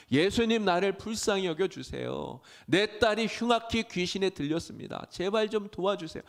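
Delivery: 울부짖듯 높고 크게 외치며 애원; 따라가며 소리쳐 매달리는 어머니처럼; crying out. Acted. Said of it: "막 울면서 소리칩니다". (예수님을 따라가며 울며 소리치는 가나안 여인의 높은 외침)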